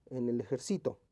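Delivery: ejército misread as ejerCÍto; ejército said with third-syllable stress; misplaced stress. Shown as a demonstration. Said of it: "vamos a ver qué dice".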